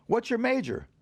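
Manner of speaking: high, loud demanding question; indignant professor. Retold or imitated. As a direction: imitate a teacher interrogating in outrage. Professor angrily questions the student.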